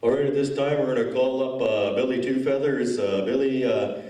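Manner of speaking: lightly voiced elder announcing; elder on the mic. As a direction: call people up like an elder MC, full of uhs. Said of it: "my impersonation of, uh, elders on a mic".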